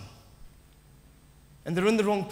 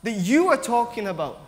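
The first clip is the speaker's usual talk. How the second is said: insistent denial; 4 semitones higher, 4 dB louder, slower than usual. Retold or imitated. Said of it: "his denial is that".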